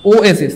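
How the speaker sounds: ও এ সিস joined up as "oh-ay-sis"; correct pronunciation. Shown as a demonstration. Teacher putting the parts together for students, ও এ সিস as "oh-ay-sis". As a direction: say ও এ সিস with a clear "ay" in the middle. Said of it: "উচ্চারণটা হবে এমন".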